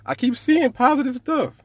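high, loud and emphatic; fired up. Real, not acted. Host fired up telling his co-host about positivity, loud and high. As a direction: pump the words up with excitement.

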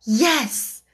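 joyfully. Acted. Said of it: "Sarah answered joyfully".

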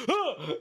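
high, short panicked cry in imitation; mock freak-out gasp. Host voicing panicked camera crew, mock freak-out cry. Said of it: "The cameras are freaking out going".

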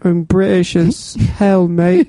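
slow, put-on British voice; British accent. Shown as a demonstration. Guest keeps proving his British accent to cohost. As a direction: lay on the amateur British accent. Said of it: "that's actually not bad".

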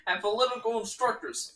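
Soviet speech. Acted. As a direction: address the troops like Stalin. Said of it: "my favorite presidential joke".

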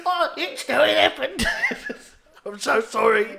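hammed-up sobbing apology; mock crying. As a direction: blubber an apology through laughter. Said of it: "He's still crying".

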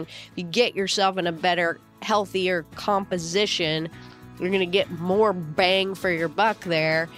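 tired, groggy speaking voice. Real, not acted. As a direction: talk like you just woke up groggy. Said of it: "the groggy voice".

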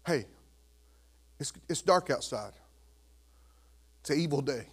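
soft, low murmur to an infant; tender and hushed; talking to baby. Retold or imitated. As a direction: speak gently, with long pauses. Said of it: "I can tell baby Quinn".

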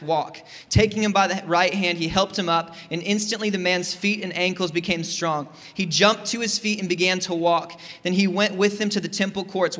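steady, measured Bible reading to the congregation; calm pulpit reading voice; scripture reading. Acted. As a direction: read the passage plainly and clearly. Reads Acts passage aloud.

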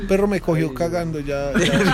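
echoing voice from a bathroom. Real, not acted. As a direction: speak from inside a tiled bathroom. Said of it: "¿Por qué suena eco por allá?".

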